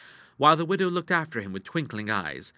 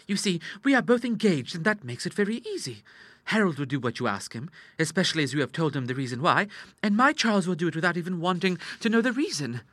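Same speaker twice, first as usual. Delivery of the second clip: put-on higher, confident girlish voice; scheming sister Ida; 7 semitones higher than usual. Girl explaining her plan to Clara, high and confident. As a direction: lay out the plot brightly.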